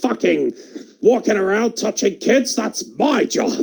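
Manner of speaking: a hammed-up wrestling boss; imitating Vince McMahon. Vince rewards Kurt from his chair, gruff mock boss. Vince voiced in imagined scene.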